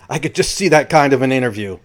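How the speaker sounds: brief acted laugh into the words; imitated laugh. Reader relaying Danny's amusement to listeners, imitated laughing. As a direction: start with a copied chuckle, then carry on quoting. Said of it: "and Danny laughs".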